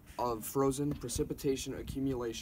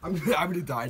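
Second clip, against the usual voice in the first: laughing; 5 semitones higher, 8 dB louder, faster than usual. Real, not acted. About to jump into snow.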